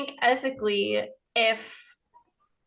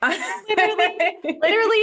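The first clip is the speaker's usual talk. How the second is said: excited exclamation; 8 semitones higher, 5 dB louder than usual. Real, not acted. Laughing at baby's fist in mouth.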